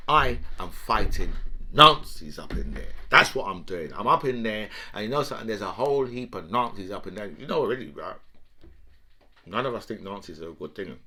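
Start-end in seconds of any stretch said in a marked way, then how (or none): 0.1-7.3 lightly voiced Putin, lower and matter-of-fact; a hint of a self-assured strongman; imitating Putin. Comic voicing Putin justifying his war, lower. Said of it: "now we've got Putin saying to us".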